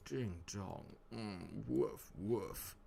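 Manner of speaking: softly voiced camp sitcom catchphrases; a hint of camp, said softly; Mister Humphreys. Quoting Are You Being Served, lightly camp and soft. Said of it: "Like Mister Humphreys from Are You Being Served?".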